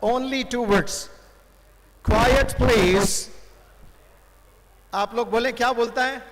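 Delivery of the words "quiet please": lightly voiced stadium announcer, drawn out; commentator hushing crowd. Commentator to a noisy tennis stadium, lightly acted hushing call. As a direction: call for silence with a stretched, measured please. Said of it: "तो सिर्फ वो दो word बोलता है".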